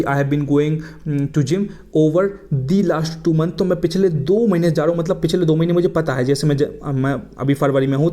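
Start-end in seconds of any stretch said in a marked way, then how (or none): 0.0-3.6 slow example with stress on the; slow corrected example. Shown as a demonstration. Teacher reads the corrected sentence slowly to students. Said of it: "जब मैं बोलूँगा कि".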